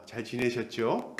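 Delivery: soft, slow, overly sweet hello; mock polite greeting. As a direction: greet him innocently while walking in. Danites greet the Levite before looting.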